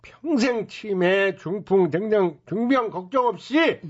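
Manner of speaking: brash hawker's sales pitch; snake oil seller. Acted. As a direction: talk up the miracle tonic.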